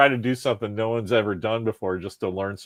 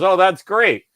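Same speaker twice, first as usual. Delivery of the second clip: put-on old guy stranger; 10 semitones higher, 10 dB louder, slower than usual. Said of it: "He goes".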